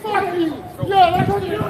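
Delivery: yelling curses at full volume, raw and out of control; furious screaming. Real, not acted. Protester screaming abuse at the cop, furious yelling. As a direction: scream it in his face, all rage.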